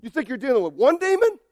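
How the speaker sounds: loud, swaggering demon taunt, slowing at the end. Acted. Demon taunting Jesus about six thousand, shouted swagger. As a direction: taunt him like a bully with an army. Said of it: "He's trying to say".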